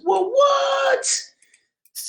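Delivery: sudden high shout of surprise; surprised. Real, not acted. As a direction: yelp it out, amazed. Surprised at own writing.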